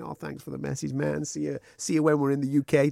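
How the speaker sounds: soft, badly faked Clitheroe accent; throwaway attempt at a Clitheroe accent; shitty Clitheroe accent. Imitating a fighter's thank-you message, rough Clitheroe accent. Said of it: "I'm doing a shitty accent".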